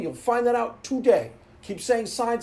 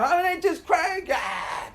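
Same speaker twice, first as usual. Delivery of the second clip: put-on high, slow whining kid voice; imitating Homer whining about church pants; whiny complaining kid; 4 semitones higher, slower than usual. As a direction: drag out the complaint like a sulky child. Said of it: "you're complaining the whole time".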